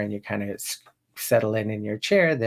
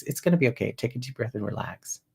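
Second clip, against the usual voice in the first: bringing it down. Shown as a demonstration. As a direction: settle an upset caller, softening toward the end. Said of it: "you bring your pattern down".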